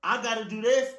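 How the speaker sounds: high, loud whooping; over-the-top cheering. Acted. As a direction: whoop like an overdone fan.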